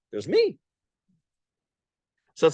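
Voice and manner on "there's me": high self-satisfied there's me; smug claim. Retold or imitated. Imagined rabbi answers critics, smug and high. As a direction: brag with a wink.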